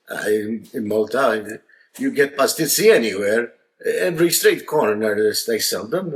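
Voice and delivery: a hint of a proud Maltese father; Maltese accent. Maltese dad lightly voiced telling the Australian guest. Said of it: "Mario, the Maltese guy, said".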